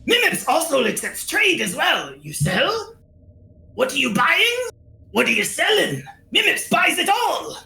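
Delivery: excitable little merchant creature, pitch swooping up; Mimips. Acted. Little merchant welcoming unexpected visitors, creature voice. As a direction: greet visitors in a perky goblin-like voice.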